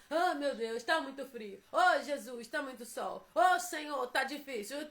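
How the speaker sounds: whiny grumbling, a touch of a sob; mock whining complaint. Preacher mocking churchgoers who grumble about weather, mock whine. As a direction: grumble like a complainer feeling sorry for themselves. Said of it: "O que que é murmuração?".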